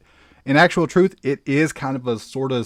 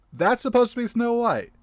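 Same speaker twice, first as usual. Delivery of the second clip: much higher, disbelieving question; can't believe what he's seeing; 11 semitones higher, 3 dB quieter than usual. Real, not acted. Stunned by the remake's Snow White, higher disbelief.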